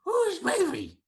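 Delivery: high-pitched creature voice; puzzled creature. Acted. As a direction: question it as an odd little creature. Game master answers as creature.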